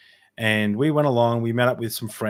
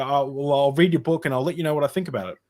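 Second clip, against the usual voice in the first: retold fumbling, higher, hurrying at the end; 4 semitones higher than usual. Reader promising the author feedback, fumbling. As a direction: stumble into an eager promise. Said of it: "I was kind of fumbling".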